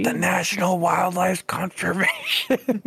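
drawn out through giggles, breaking into high laughter; laughing. Real, not acted. Player feeding a teammate the silly cover name, laughing. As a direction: struggle through it while cracking up.

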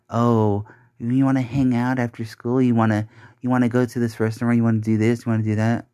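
rattling off hollow offers in a sing-song mock voice; mocking chatter. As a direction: parrot their empty invitations with light scorn. Mocking people's shallow small talk.

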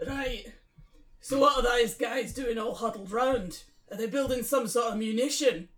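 put-on Scottish accent. Newcomer asks about the huddled men, Scottish accent. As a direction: ask curiously in an attempted Scottish accent. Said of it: "his Scottish".

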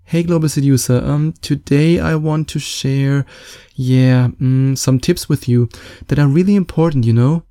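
mock unconfident talk with fillers and rising ends; insecure voice demo. Shown as a demonstration. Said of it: "Does that sound confident?".

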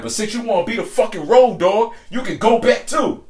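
high, loud mock telling-off; retold angry dismissal. Woman sending the friend back too, retold high and angry.

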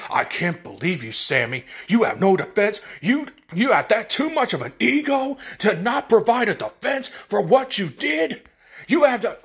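flustered angry Roman. Retold or imitated. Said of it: "he gets all flustered and angry".

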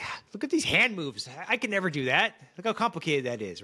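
high-pitched, swooping mock amazement; a singer marvelling. A singer watching another singer's hand moves, mock awe. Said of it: "a singer's watching this".

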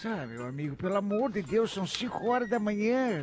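soft, low, half-asleep grumble; sleepy grumpy voice. Retold or imitated. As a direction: grumble like you were just woken. Sleepy bar owner answering.

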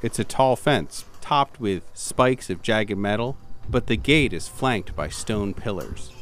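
ordinary talk, nothing marked

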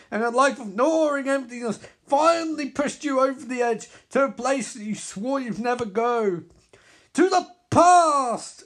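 villain narrating the hero's past; villain narration. Acted. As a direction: ask it like a cruel reminder.

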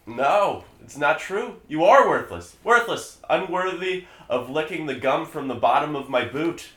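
loud, high, shrieking villain; melting scream. Acted. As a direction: shriek as you melt away. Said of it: "as David begins to melt".

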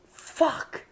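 soft, voiceless swear; whispered curse. Retold or imitated. Son alone on his bed wondering, whispered curse.

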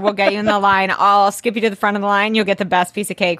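quick, eager street hustler pitch; fast-talking promoter. Pretend. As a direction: hustle them round the corner fast. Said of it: "I'm like".

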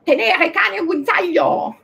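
put-on high, loud German-accented Italian. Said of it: "italiano con accento tedesco".

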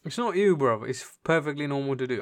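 talking while chewing nails; biting nails. Real, not acted. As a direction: speak around a nail in the teeth. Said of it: "I'm chewing my nails".

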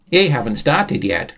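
chirpy high-pitched character; perky high voice; high cheerful Sam voice. Acted.

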